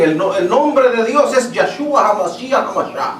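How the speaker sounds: mildly mock the people who insist on the Hebrew name; mocking the know-it-alls. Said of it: "hay personas que dicen". (imitando con burla a quienes corrigen el nombre)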